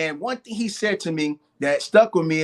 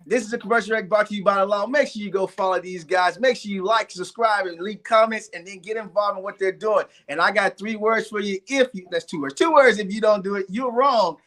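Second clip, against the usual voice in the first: higher-pitched, playful ad-read delivery; mock commercial read; 3 semitones higher than usual. Guest closes the show with his commercial break, mock ad read. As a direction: pitch it like a sponsor plug, ending on a punchy verdict. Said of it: "Let me give you guys a commercial break".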